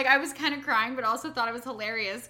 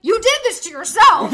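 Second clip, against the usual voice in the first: loud dad scolding; 8 semitones higher, 16 dB louder than usual. Retold or imitated. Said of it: "he was like".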